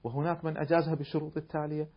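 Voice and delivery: soft, calm and kindly; gentle reply. Retold or imitated. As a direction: answer him gently and politely. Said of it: "بأسلوبك الهادئ اللطيف". (ردّ هادئ لطيف)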